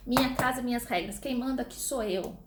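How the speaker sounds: lightly voiced stern mom; a touch of the mother asserting authority; strict mother laying down rules. Teacher imitating a mother stating house rules to her child, mild stern tone. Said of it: "uma outra máxima que todas as mães falam".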